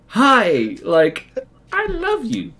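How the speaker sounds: starstruck fan. Retold or imitated. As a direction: blurt it out like meeting your hero. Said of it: "And I'm like".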